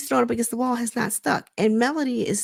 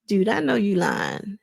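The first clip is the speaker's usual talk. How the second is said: skeptical. Retold or imitated. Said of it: "the different faces that Mel was giving him".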